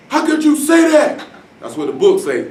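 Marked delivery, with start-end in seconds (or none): 0.1-1.2 high, slow mock-shocked voice; high, slow mock disbelief; shocked bystander. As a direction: play the scandalised average person. Average person reacts, shocked.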